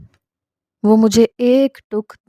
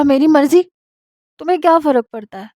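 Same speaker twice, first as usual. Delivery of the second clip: higher, sharp defiant retort; tearful snap; 6 semitones higher than usual. Acted. Wife defiantly answers husband's question, higher and sharp. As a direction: throw it back at him. Wife snaps back angrily.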